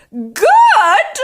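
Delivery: high, loud incredulous echo; outraged scream. A narrator's reading. Grandma answering George's claim, outraged scream. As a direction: scream the word back as a question. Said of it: "she screamed".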